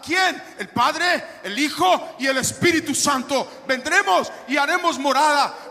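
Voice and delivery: rousing, emphatic preacher's delivery; full-force preaching. Acted. Preacher telling the congregation God dwells in believers, rousing preaching.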